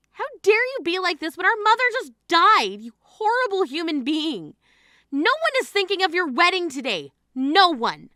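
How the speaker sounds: high, loud angry tirade; furious yelling. Acted. Grieving sister yells at selfish bride, furious and loud.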